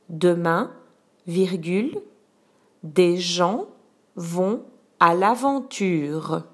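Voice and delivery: slow, clear dictation voice; dictating. Shown as a demonstration. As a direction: dictate the sentence slowly, word by word. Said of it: "je te dicte la phrase un".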